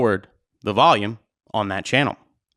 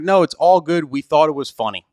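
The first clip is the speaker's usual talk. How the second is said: quoting the couple; 4 semitones higher, 4 dB louder than usual. Retold or imitated. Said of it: "they kept saying".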